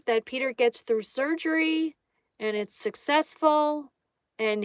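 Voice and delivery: measured prayer, pausing between phrases, softening at the close; spoken prayer. Real, not acted. Streamer praying for a viewer's surgery, prayerful and measured. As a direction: lead everyone in a short, unhurried prayer.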